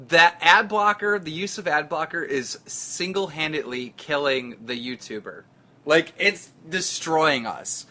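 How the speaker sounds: deliberate, weighty delivery with the phrase "ad blocker" slowed and stressed; slow emphatic restatement. Shown as a demonstration. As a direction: lean on "ad blocker" and say it slowly, weighty, like a warning. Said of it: "I'm gonna say it again, just so it's clear".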